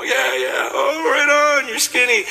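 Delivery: high, laughing shouts of agreement; laughing cheer. Retold or imitated. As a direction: cheer her on through laughter. Crowd laughing along at story.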